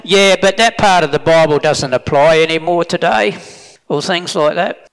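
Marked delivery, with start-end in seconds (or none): 0.0-3.3 mock dismissive. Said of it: "Or they say".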